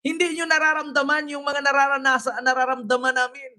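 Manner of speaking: lightly imitated aggrieved woman; mock protester. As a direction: mimic her plaintive complaint. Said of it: "tapos sabi niya". (bahagyang panggagaya sa babaeng naghihinanakit)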